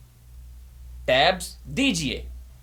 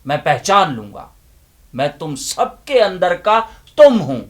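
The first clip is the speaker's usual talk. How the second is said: loud, impassioned recitation with long pauses; dramatic declamation; 8 dB louder than usual. Acted. Inner voice confronting the listeners with a loud, impassioned declamation. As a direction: preach it like a stage monologue.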